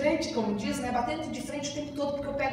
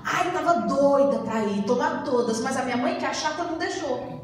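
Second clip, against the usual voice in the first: mock complaint; 5 dB louder than usual. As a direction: play the teen blaming her mother with a laugh. (reclamação fingida, rindo)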